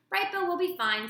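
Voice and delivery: kind, gentle robot voice; friendly. A narrator's reading. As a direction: reassure them kindly. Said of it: "using a friendly voice".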